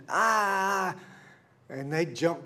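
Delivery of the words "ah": a short mock cry of pain, a little louder; imitated scream. Son imitating his dad's pain cry at the hospital, mock yelp. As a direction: mimic dad's yelp without real force. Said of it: "he's screaming and".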